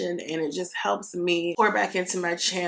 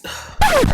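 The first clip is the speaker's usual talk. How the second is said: strained voice crack; 8 dB louder than usual. Real, not acted. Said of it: "girl, can you speak?".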